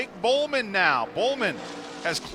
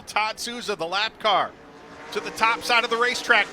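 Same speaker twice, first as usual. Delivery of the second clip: play-by-play call. Acted.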